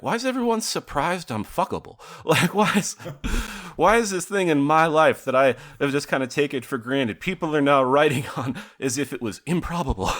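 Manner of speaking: high amused disbelief, laughing through it; incredulous Walton Goggins. Pretend. Imagining Walton Goggins reading articles about himself, high laughing disbelief. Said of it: "be like".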